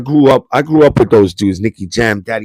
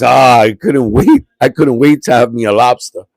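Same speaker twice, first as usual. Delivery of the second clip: delighted mom; 5 dB louder than usual. Retold or imitated. Mom caught eating lobster, voiced.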